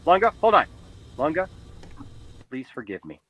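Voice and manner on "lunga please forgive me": low, much softer apology; hushed, low plea in an argument; quiet plea. Real, not acted. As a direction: drop right down and ask forgiveness.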